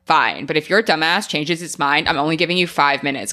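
sassy computer voice. Pretend. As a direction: give it some attitude. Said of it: "I need Mother to have a sassy tone".

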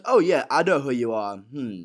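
acted, goading character quote; lightly voiced taunting gangster; Alfie. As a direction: needle your visitor in a put-on character voice. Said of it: "And he goes".

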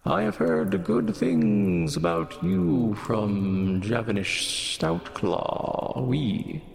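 slow lilting warforged voice; sing-songy voice. Acted. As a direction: draw the words out in a sing-song. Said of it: "Almost sing-songy voice".

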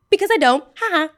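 loud, high, gleeful gloat; gloating burst. Real, not acted. Gloating over the boy who once mocked her, loud. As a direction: crow it with a laugh.

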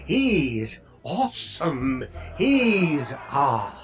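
imitating an admiring fan. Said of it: "people will say".

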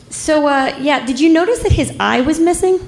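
high, hesitant query climbing at the end; tentative question. Retold or imitated. EMT breaking odd news to the officer, tentative. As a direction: broach it awkwardly, pitch lifting into a question. EMT broaches missing eye.

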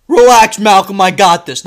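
loud, forceful brush-off; brash dad. Retold or imitated. Dad waving off the teacher, brash and loud. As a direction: shut the teacher down loudly.

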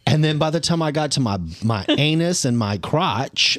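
normal talking voice

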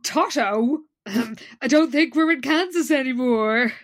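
quoting Jessica. Retold or imitated. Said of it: "Jessica says".

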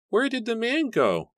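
put-on very high small-child voice; high-pitched alarmed question; horrified child. A narrator's reading. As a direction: ask like a frightened little one. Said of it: "Ezra asked Edward. His eyes wide with horror".

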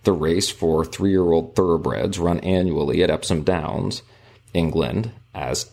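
measured, formal book narration; reading aloud. A narrator's reading. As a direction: read the passage out with careful phrasing. Reads book passage aloud.

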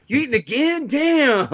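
high, loud incredulous scolding; comic exasperation, rising to a loud finish; puppet character imitation. Puppet reacts to the snacking, loudly exasperated.

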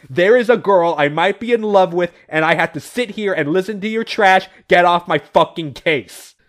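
half-hearted furious shout at him; hammed-up rage while throttling him; retold screaming.

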